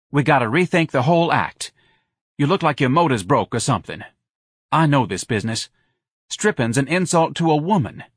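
irritated club owner's rebuke; scornful bar owner. Acted. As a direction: tear into the employee scornfully.

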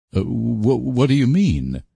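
high, halting, stumbling start; stammering. A narrator's reading. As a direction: stumble over the first words in shock. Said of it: "he stammered".

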